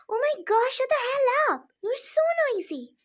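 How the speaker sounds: high, loud furious snap; exasperated screaming; angry yell. Acted. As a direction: shout them down, fed up. Mother yells in quarrel.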